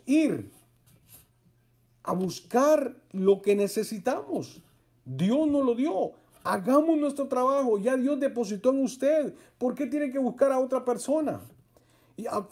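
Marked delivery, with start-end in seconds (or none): 5.0-11.4 fervent preaching. Real, not acted. Preacher exhorts congregation.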